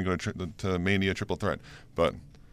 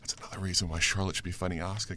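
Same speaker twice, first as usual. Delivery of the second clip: whispering; 7 dB quieter than usual. Real, not acted. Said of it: "Why are you whispering?".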